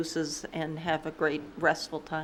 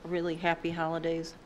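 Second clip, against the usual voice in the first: talking around a mint; words round a mint in the mouth; mouth full; 4 dB quieter than usual. Real, not acted. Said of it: "I've got a mint in my mouth now".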